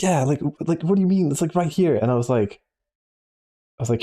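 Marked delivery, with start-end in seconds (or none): 0.0-2.0 lightly voiced manager, higher, pointing it out; a hint of an exasperated boss; mock insistent manager. Manager insisting to her waiter about his black eye, lightly voiced higher.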